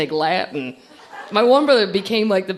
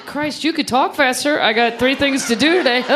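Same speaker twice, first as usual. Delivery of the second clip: mildly exasperated, higher-pitched hurry; pitched up, pressed for time; impatient; 5 semitones higher than usual. Acted. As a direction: act a customer losing patience. Impatient customer rushing a slow Southerner.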